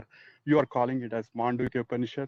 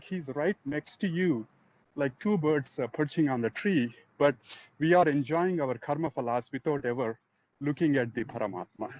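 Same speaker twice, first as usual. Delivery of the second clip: slightly winded while walking; talking while catching your breath. Real, not acted. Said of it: "I'm catching my breath".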